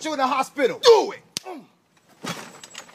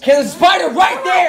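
alarmed shout; 5 dB louder than usual. Acted. Prank scare shout.

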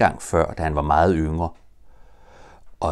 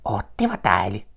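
whispered delight; 3 semitones higher than usual. Acted. Breathless joey after bouncing.

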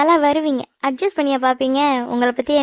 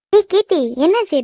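calling out; 5 semitones higher than usual. Acted. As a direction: hail her from a distance. Friend calls out across shop.

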